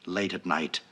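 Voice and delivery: solemn, measured poetry reading; mock poem recital. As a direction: recite it like a grand old poem, slowing on thy silly.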